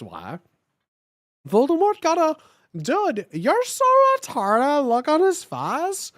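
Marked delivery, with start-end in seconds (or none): 1.5-6.1 shout. Acted. Crowley shouting at Voldemort.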